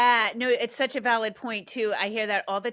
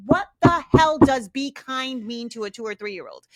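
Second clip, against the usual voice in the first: louder, fed-up disbelief at vague advice; exasperated question; 7 dB louder than usual. Retold or imitated. Ranting to the host about being kind, exasperated.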